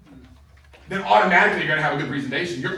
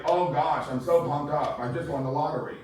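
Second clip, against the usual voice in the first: unexcited lottery winner; deadpan mock excitement; 3 semitones lower, 4 dB quieter than usual. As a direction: claim huge excitement with no energy at all. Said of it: "send an email to your face. Let your face know".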